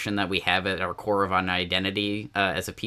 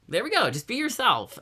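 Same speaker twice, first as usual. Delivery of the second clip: "There we go" jumps higher; pleased with himself, pitched up; mock triumph; 13 semitones higher than usual. Retold self-quote.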